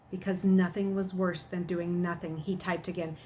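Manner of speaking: steady read-aloud storytelling; story narration. A narrator's reading. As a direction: read the chapter to the class. Reads chapter aloud to students.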